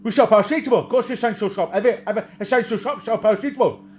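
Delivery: high, loud cackling shop assistant; mock old crone voice, high and loud; imitating old crone. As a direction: play the batty old crone snapping back. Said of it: "she started going on, cackling, and she said".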